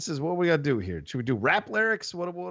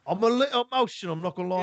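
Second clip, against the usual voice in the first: mock Cockney; 3 semitones higher, faster than usual. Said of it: "I'll do the com-, that, that conversation".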